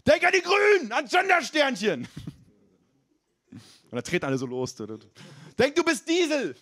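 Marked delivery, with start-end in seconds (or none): 0.0-2.1 very high, slowing mock trainer yell; rally conservatives like a spin coach; imagined trainer yelling at a CSU class; trainer shouting. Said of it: "was sie brüllt". 5.6-6.5 very high mock trainer cry; imagined spin coach calling out; trainer shouting. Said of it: "was sie brüllt".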